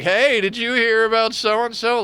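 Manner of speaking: high, loud gossip voice; nosy neighbor leaning in with news; eager busybody asking; gossipy lady. Retold or imitated. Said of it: "the one that's like".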